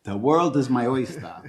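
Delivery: showy Boston "oystah"; Boston accent. Shown as a demonstration. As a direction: proudly drop the R, Boston style. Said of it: "There's that Boston accent".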